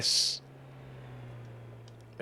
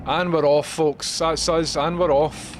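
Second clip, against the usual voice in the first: excited announcement; 4 semitones higher, 6 dB louder, slower than usual. Real, not acted. Sets off, announcing to viewers.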